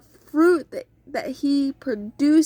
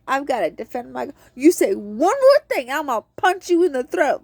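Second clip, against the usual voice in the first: mock fighting words; faster than usual. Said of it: "And I would feel like".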